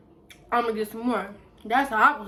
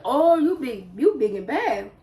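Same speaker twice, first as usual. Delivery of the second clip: 1 mocking; 4 dB louder than usual. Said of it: "I said".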